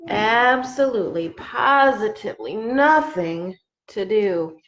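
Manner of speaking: lively storybook read-aloud; reading to children. Acted. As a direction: read it like a bedtime book. Reads picture book aloud.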